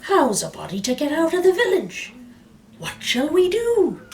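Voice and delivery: high, loud lament; wailing. A narrator's reading. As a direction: wail in dismay. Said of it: "the villagers wailed".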